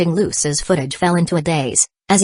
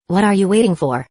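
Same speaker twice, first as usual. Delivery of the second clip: pitch jumps up; 3 semitones higher than usual. Acted. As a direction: voice lifts on the repeat. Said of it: "His voice suddenly jumped a pitch".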